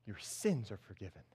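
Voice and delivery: soft, low, measured reassurance; tender pardon. Acted. Jesus tenderly forgives the paralyzed man.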